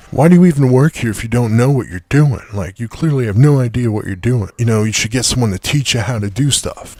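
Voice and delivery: mildly mimicking an irate customer; retold freak-out. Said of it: "customers who freaks out".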